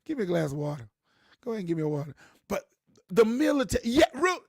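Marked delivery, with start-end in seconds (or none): 0.1-2.2 put-on Rockingham accent. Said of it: "that's how we used to say it in Rockingham".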